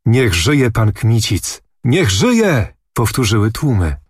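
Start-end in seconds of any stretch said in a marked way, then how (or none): none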